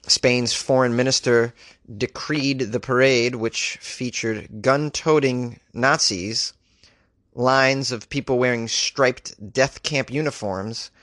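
slow, stumbling read of a clunky sentence; halting slow read. Real, not acted. Host stumbling through the article, slow and halting. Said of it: "I'm not reading this correctly at all".

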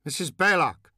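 high, sharp angry summons; mother angrily calling the nanny. Acted. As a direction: bark the nanny's name in anger. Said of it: "jolted by the anger of her tone".

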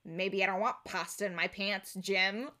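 low, muted deadpan comeback; underplay it, dry and serious. Acted. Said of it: "in a deadpan comedy".

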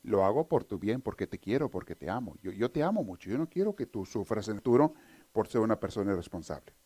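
tender parent. Retold or imitated. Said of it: "le digas".

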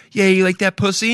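dead serious teasing, half-hearted; serious dirty talk. Retold or imitated. Girlfriend teasing him mid-meal, in mock-serious voice. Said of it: "being so serious".

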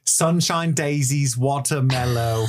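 drawn-out spell in a put-on British voice; mock British accent. Mangling a Harry Potter spell, slow mock British accent.

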